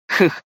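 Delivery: short wry huff of a laugh; caustic scoff. A narrator's reading. Dragon ruler answers his son's concern, caustic scoff. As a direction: scoff briefly, with a touch of acid. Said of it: "едко усмехнулся правитель чёрных драконов".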